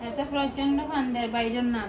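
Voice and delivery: mock wailing. Wailing over cancelled trip.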